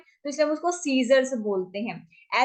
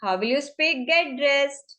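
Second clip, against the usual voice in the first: slow question; much slower than usual. Shown as a demonstration. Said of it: "teacher asks slowly".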